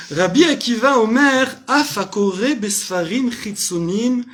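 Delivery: slow, careful Hebrew accent on the quote. Shown as a demonstration. Teacher quoting Rabbi Akiva to the class, in a Hebrew accent. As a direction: recite the Mishnah line in a Hebrew accent. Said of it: "je fais avec l'accent".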